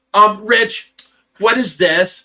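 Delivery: acted, very slow, drawn-out delivery with sassy attitude. Retelling how she reacted when shown the pool; mimicking Tracy's sassy attitude. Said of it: "she gives me a little attitude".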